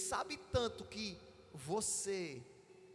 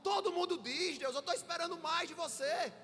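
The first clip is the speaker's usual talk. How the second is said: higher, pressing complaint to God; Josué pleading; 5 semitones higher than usual. Acted. Josué demanding an answer from God, exasperated.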